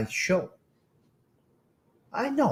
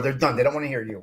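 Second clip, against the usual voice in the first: imitating Carmela; 3 dB louder, faster than usual. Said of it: "she's gonna say".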